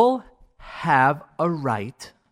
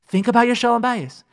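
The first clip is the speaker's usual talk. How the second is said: higher, louder "Think about your shalom bayis" with a firm fall; emphatic; 7 semitones higher, 3 dB louder than usual. Shown as a demonstration. Rabbi urging listeners toward peace at home, emphatically.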